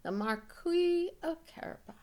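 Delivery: lightly voiced courtly cat; a hint of a grand welcome; Puss greeting the king. Puss welcomes the king, lightly courtly. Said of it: "said to the king".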